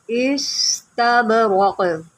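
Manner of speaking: इस्तबरक with an echoing bounce on b; qalqala. Shown as a demonstration. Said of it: "हम कलकला करेंगे".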